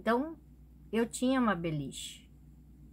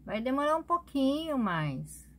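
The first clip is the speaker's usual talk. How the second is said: higher-pitched, amused retold protest to grandma; amused mock reassurance; 5 semitones higher than usual. Granddaughter-in-law telling grandma she won't go yet, amused reassurance. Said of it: "aí comecei a até rir assim".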